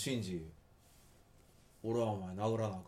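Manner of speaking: plain native Kansai reading; real Kansai dialect. Shown as a demonstration. Scene: asked how Kansai people really say it, native Kansai. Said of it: "本当の関西弁では…どういうふうに言うんですか".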